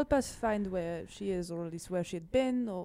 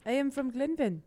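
put-on mild French accent; 4 semitones higher than usual. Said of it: "I'm just doing a French accent".

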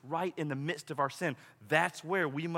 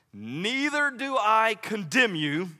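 gentle verdict; 3 semitones higher, slower than usual. Retold or imitated. Jesus forgiving the woman.

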